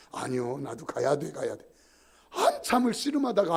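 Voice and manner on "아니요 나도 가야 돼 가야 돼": put-on drunken insistence. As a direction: slur that you must go home too. (취한 형님의 낮고 느린 고집)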